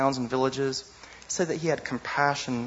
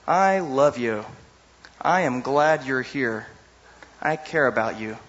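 slow tender; slower than usual. Retold or imitated. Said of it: "That's a way of saying".

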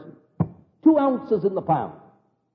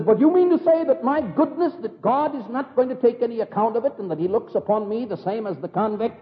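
shocked protest; 5 semitones higher than usual. Retold or imitated. Proud judge protesting his goodness.

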